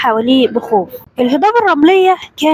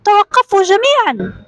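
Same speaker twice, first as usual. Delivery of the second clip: mild acted yell; 6 semitones higher than usual. A narrator's reading. Raider halting the caravan from the hills, mild acted yell. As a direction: call out a halt, mildly raised. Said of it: "صوت صريخ من فوق التلال".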